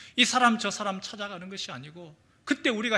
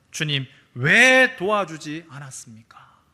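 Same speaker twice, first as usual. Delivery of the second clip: slow, louder aggrieved whine in another voice; complaining believer; 2 semitones lower, 6 dB louder than usual. Acted. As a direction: sulk at the Lord. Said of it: "원망하죠".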